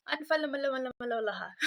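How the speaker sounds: giggling through a tangled अनफेमिलियर; laughing at own stumble. Real, not acted. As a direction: laugh as the word falls apart. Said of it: "हम हकलाने लग जाते हैं". (अपनी गलती पर हँसते हुए)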